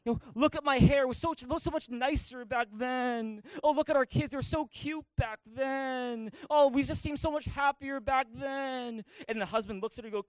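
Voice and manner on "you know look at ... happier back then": higher, slowed mock complaining. Wife complains to her husband over old pictures, mock whine. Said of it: "in this kind of complaining kind of way".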